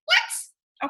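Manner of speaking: squeaky high mock shock; a yelped what of disbelief; exaggerated shocked what; disbelieving what. Real, not acted. Disbelieving exclamation.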